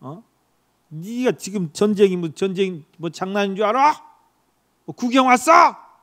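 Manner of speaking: a touch of big brothers scolding, rising at the end; mild angry scolding. Acted. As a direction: lightly scold the little brother. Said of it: "형들이 막 화를 냈어요". (가볍게 화내며 꾸짖듯)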